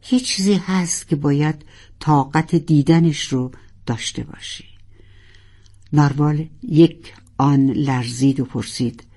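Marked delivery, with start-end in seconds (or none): 0.1-4.6 measured and calm. Acted. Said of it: "شمرده شمرده و آروم گفت".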